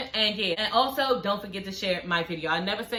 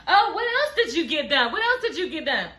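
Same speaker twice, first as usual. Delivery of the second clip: nosy prying; 5 semitones higher than usual. Retold or imitated. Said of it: "the girls are looking at her".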